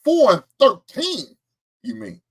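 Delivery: high, loud, slow mocking jeer; hammed-up hater voice. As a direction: sneer it back like a smug hater. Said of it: "Another hater says".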